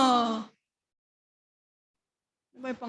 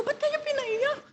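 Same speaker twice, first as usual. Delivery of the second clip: much higher, startled asking why; surprised question; slower than usual. Retold or imitated. Mother on the phone, startled, high question. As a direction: jump up in alarm at the news.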